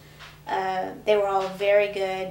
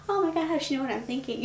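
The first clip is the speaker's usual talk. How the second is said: a much higher, astonished "Oh my gosh"; surprised exclamation; 6 semitones higher than usual. Retold or imitated. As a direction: gasp it out, amazed she read your mind. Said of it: "And I was like".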